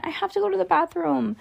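mild high whine; whining. A narrator's reading. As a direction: whine like a bored little brother. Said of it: "Stink whined".

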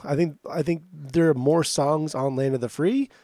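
The album title with a rising, questioning lift; rising tune. Real, not acted. Naming the album, its title lifted like a question. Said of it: "I really hate that I say it like that now".

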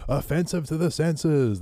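slow, drawn-out announcer intro; mock stage announcer. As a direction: announce the band like an MC. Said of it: "Welcome to the stage".

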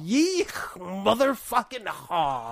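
slow drawn-out yeehaw; cowboy holler. Pretend. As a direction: stretch it like a cowboy. Cowboy shit banter.

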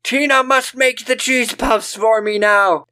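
shrill hammed-up no; mock outraged mom. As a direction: Susan forbidding Tina. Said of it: "Susan forbidding".

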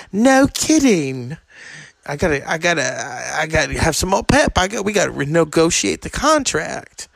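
mock singer haggling; a hint of the singer's rasp. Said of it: "he's like".

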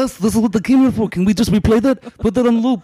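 high-pitched, hammed-up eager voice; mock excited fans. Guest imitating viewers thrilled by the clip, mock excited.

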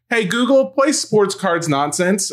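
put-on high, slow kid talking to a speaker; little girl voice. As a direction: play the small daughter asking Google. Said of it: "She's like".

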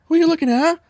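Boston accent. Shown as a demonstration. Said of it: "I can do a fucking Boston accent".

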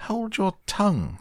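very high, outraged command; queen losing her temper, pitch soaring; enraged. A narrator's reading. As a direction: order silence in a high-pitched royal rage. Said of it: "turning purple".

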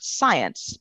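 "science" drawn out with a falling tune; stress on science. Real, not acted. Podcast guest telling the host what matters, emphasizing "science". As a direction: lean firmly on the word "science". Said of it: "like to really emphasize the word".

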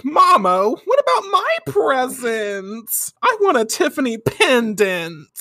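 put-on high, slow, whiny girlfriend voice. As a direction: whine for the present like a spoiled girl. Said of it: "Usagi's like".

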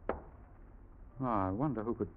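breathless, hushed dread; barely voiced, stunned by the letter; shocked whisper.

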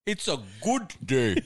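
slow Aussie "It's a good day"; slow Australian accent; mock Australian. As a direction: drawl it out Australian style. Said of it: "they sound German".

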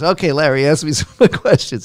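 demanding coach. Retold or imitated. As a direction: put on a coach calling for questions.

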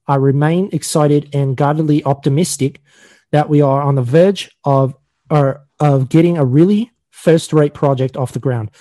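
put-on amateur Australian accent, measured announcement reading; mock Australian accent. Host reading a show update to cohosts, mock Australian accent. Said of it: "a really crappy version of an Australian".

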